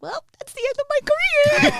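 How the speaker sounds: loud, high-pitched mock wail; hammed-up sobbing lament; mock tearful. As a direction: imitate yourself wailing in tears, half laughing. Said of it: "walking out the studio being in tears".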